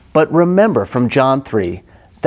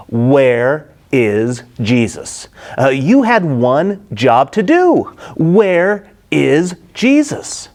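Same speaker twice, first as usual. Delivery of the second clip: demanding Pharisees; slower than usual. Acted. Pharisees demand, retold paraphrase.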